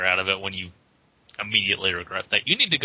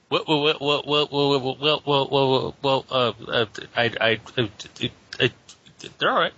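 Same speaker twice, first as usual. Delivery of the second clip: bad stuttering cartoon pig, a bit higher; Porky Pig stutter; 3 semitones higher than usual. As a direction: stammer through the wells, half-hearted pig voice. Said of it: "It's my worst Porky Pig impression".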